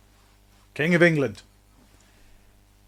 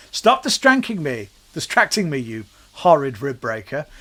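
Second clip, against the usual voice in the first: playful scold; 7 dB louder than usual. Real, not acted. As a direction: shoo off a pest with fake outrage. Scolding a distraction off camera.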